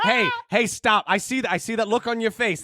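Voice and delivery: upbeat standup comic crowd work; heckle-ready stage comic voice; comedian voice. Retold or imitated. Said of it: "This is my comedian voice".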